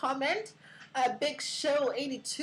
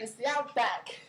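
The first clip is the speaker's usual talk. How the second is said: Aussie outback, falling; mock Australian correction; playful Australian accent. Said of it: "Aussie slang".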